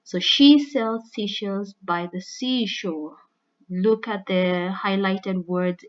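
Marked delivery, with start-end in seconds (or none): 0.2-3.2 "She sells seashells by the seashore" said slowly with each s sound stressed; slow, loud alliteration. Shown as a demonstration. Teacher slowly spells out a tongue twister for the students. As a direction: draw out every s sound for the class. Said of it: "classic example of alliteration".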